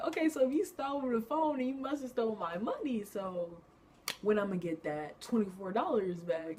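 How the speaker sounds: high, loud, sassy disbelief; playful mock outrage over twenty-four dollars; indignant inner voice. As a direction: demand your money back in your head. Inner thought about stolen money.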